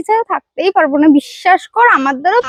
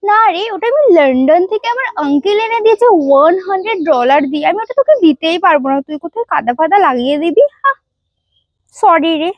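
put-on sorority girl. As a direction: act appalled and superior. Snobby girl refuses dress.

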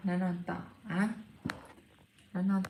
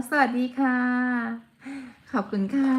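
high, louder thank-you as the cat; cute cat voice; 7 semitones higher, 7 dB louder than usual. Acted. Cat thanking viewers, high bright cute voice. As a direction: chirp thanks as the pet cat.

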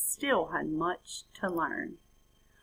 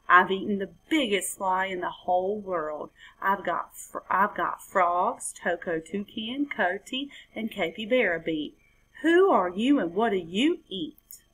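boasting frog. Acted.

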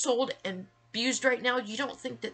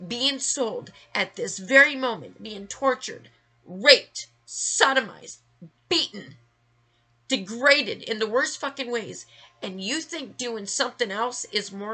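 rising fury, hitting each word louder; angry outburst; 2 semitones higher, 6 dB louder than usual. Real, not acted. Ranting to viewers who ignore victims, angry and loud. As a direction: spit out the list in real anger. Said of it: "and I'm getting angry".

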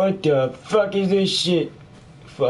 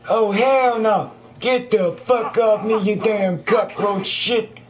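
higher, drawn-out cursing in alarm; alarmed outburst; 5 semitones higher than usual. Real, not acted. Player fighting off a cockroach, alarmed outburst. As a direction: recoil and swear at the thing on you.

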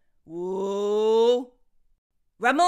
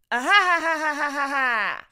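laughing. Acted. Villain laughing at stuck heroes.

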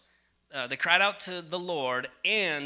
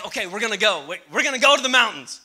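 eager resolve; 3 semitones higher, 5 dB louder, faster than usual. Retold or imitated. Preacher acts out the weekend plan to go to the mountains, eagerly. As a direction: announce the outing with rising gusto. Acting out deciding on a trip.

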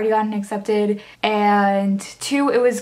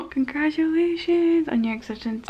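laughing; 6 semitones higher than usual. Real, not acted. Laughing reading acceptance.

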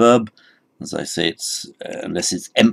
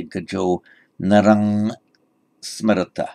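Thai reading. Retold or imitated. Teacher imitating how a Thai would read the verse. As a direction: read narang with a hard ng like a Thai monk. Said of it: "if this were being read by a Thai, he might say".

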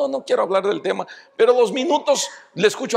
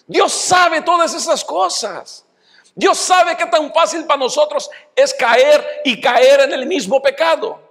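raised pulpit voice proclaiming God knows; preaching shout; 6 semitones higher than usual. Real, not acted. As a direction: lift it to the back pews. Preacher building to a cry.

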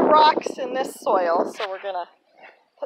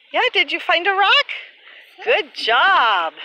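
squeaky praising; 6 semitones higher, 6 dB louder than usual. Real, not acted. Praising toddler.

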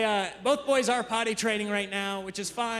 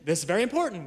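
higher, mock-earnest little kid lecturing dad; imitating a bossy kid; 5 semitones higher than usual. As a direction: play the child explaining something very important.

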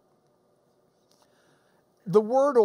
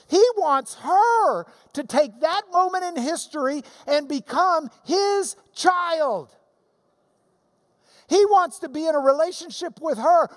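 loud, higher-pitched pulpit preaching; full-force preaching; 6 semitones higher, 3 dB louder than usual. Acted. Preacher exhorts the congregation about God's love. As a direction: drive the message home with rising fervor.

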